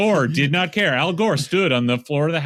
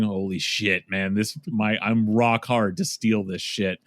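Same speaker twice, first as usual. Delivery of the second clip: much lower, conspiratorial mock villain voice; scheming conservative justices; 7 semitones lower than usual. Justices gloating over a stolen election, low mock-villain voice. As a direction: drop the voice low like a plotter gloating over the loot. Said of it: "huddle together with their fingers steepled going".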